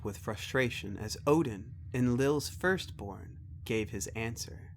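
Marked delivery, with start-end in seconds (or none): none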